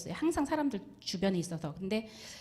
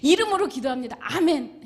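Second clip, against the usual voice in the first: a ringing, louder closing of the prayer; loud, clear prayer; 6 semitones higher, 11 dB louder than usual. Retold or imitated. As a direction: proclaim the ending boldly and loudly. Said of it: "또 발음이 또 잘 나와요".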